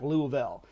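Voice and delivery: "Louisville" run together as LOO-vul; local pronunciation. Shown as a demonstration. Streamer disowning part of the local dialect, local pronunciation. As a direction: say "Louisville" the local way, middle syllable swallowed. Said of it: "it does not include things like".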